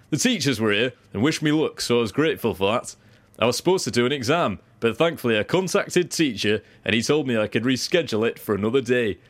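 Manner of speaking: lightly voiced young Yorkshire cricketer; impression of teenage cricketer. Reading a teenage bowler's quote, light impression. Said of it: "it's quite a good impression of him".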